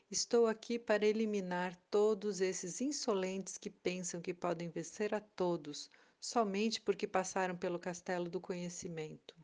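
loud booming threat; roaring dragon. Acted. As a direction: boom it out like an angry dragon. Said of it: "O dragão vociferou outra vez". (dragão vociferando alto)

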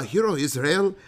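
second stab at a mock Irish lilt; badly faked Irish accent. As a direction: try a tentative, joking Irish voice.

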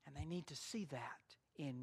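whispered, low and intimate; preacher whispering the point to listeners; dramatic whisper. Real, not acted. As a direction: lean in and whisper it to the congregation. Sermon drops to whisper.

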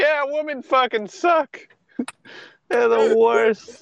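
high, slow mocking whine. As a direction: sneer it in a put-on high voice. Mocking voice of an idiot.

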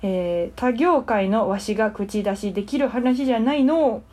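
lightly voiced old sage; a hint of an ancient hermit; wise old hermit. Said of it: "キャラはすごい守ってらっしゃいました".

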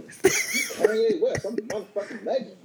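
slow, high, drawn-out self-proclamation; mock rapper boasting. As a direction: announce yourself like a legend. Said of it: "who are you".

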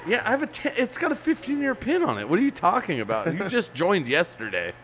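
high, teasing put-down; mocking high voice. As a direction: taunt him from up high. Voicing the other guy mocking.

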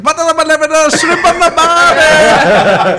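high, loud, slow hammed-up Australian; laughing through a mock Australian accent. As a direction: squeal it out as a silly Aussie. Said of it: "Dukes of Hazzard, where he's like".

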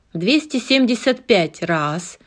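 auctioneer calling bids. Acted. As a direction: chant the bids aloud. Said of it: "кричал аукционист".

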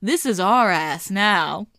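slow, menacing mock villain; voicing capitalism. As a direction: drawl it like a smug owner. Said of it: "and said".

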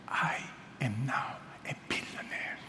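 soft unvoiced whisper. Friend whispering his secret news to the pastor, hushed whisper. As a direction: breathe it like a secret. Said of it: "And he whispered".

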